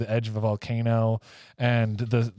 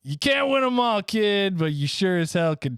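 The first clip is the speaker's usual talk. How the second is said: gruff Rudolph; 7 semitones higher than usual. Acted. Rudolph's line.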